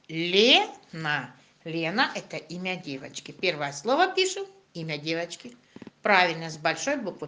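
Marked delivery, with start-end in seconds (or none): 0.1-1.3 slow clear dictation; dictating. Shown as a demonstration. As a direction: say "Лена" slowly for writing. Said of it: "Записываем первое слово".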